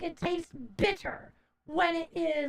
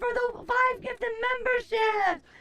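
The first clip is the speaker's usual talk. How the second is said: excited thanks; 6 semitones higher, slower than usual. Real, not acted. Thanking donor loudly on stream.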